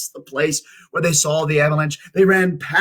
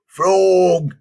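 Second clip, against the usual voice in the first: calling out; 5 semitones higher, 7 dB louder than usual. A narrator's reading. Toad calling for lost Frog.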